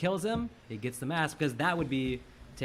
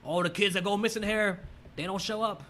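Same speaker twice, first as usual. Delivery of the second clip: lightly voiced spooky old lady; 5 semitones higher than usual. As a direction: warn them like a creepy local. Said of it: "She's like".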